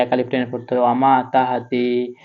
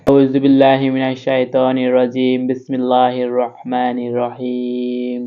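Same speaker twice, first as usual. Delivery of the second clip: slow, measured Arabic recitation of the opening; Quran recitation; slower than usual. Acted. Teacher opening the lesson for viewers, slow devout recitation. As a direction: recite the bismillah slowly and devoutly.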